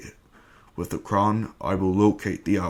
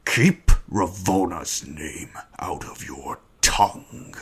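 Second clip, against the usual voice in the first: menacing whisper; 5 dB louder, slower than usual. Acted. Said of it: "Kang's very loud decree".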